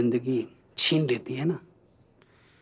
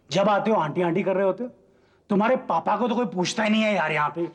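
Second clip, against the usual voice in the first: mock complaint; 5 semitones higher, 3 dB louder than usual. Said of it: "ये सब क्या आप गुस्से से बोल रहे हैं?".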